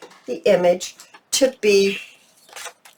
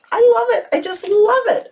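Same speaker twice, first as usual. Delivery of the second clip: excited gushing. Real, not acted. Crafter gushing to viewers over her finished pocket, high and excited. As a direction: squeal how much she loves it.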